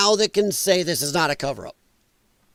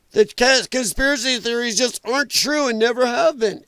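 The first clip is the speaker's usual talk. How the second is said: a hint of a stiff official, pitched higher; lightly mock the official denial, a little higher; mocking Cash; 4 semitones higher than usual. Streamer mocking Cash's official line, lightly voiced stiff denial. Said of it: "I'm making fun of Cash".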